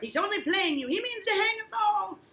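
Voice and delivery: high, loud cry breaking into a laugh; desperate, half-laughing wail; desperate outcry. Acted. Giles's desperate outburst, acted.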